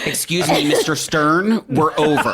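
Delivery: politely high mock official voice; mock staffer. Staffer telling Mister Stern the show is over, prissy. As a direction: play the prissy staff member.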